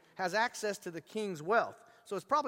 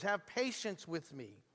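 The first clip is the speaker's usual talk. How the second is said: quiet repeat; 5 dB quieter, slower than usual. Shown as a demonstration. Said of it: "Same exact words".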